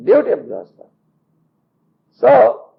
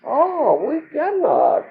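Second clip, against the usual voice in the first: slow mock groan of overfull disciples; 2 semitones higher, slower than usual. Disciples complaining to Guruji they are too full, slow mock groan. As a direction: drag it out, too full to move. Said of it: "The disciples said".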